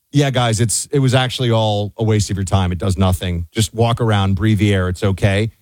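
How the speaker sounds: lightly voiced Fauci, breezily dismissive; a hint of Fauci shrugging it all off; mock Fauci confession. Mock Fauci admission quote.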